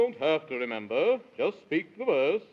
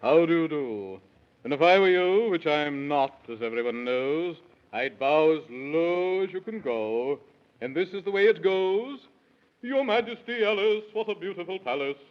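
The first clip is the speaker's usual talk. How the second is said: reciting verse; 2 semitones higher than usual. Acted. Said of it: "You mean I'm supposed to say that".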